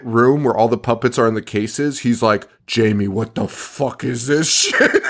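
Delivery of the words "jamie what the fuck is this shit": slow, hammed-up disbelief; a touch of dumbfounded horror; mock bewilderment. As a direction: imitate a baffled cop, dragging the words. Mocking cop baffled by the puppets.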